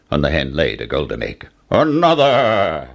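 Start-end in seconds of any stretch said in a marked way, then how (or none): 1.7-2.9 slow commanding giant; giant ordering. Acted. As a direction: demand it like a giant. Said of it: "ordered the giant".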